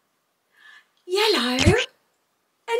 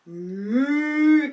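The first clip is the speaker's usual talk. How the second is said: drawn-out pretend moo; long spoken cow call; 4 semitones lower than usual. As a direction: imitate a cow for children. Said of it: "It's going moo".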